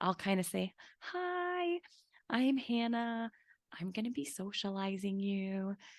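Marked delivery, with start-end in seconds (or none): 1.0-5.7 soft, slow, gentle talk, long drawn-out "hi". Demonstrating what she says to a kitten while it eats, gentle talking. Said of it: "you can try out some gentle talking".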